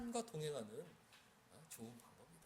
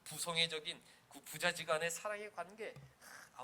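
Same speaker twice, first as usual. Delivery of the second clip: usual speaking voice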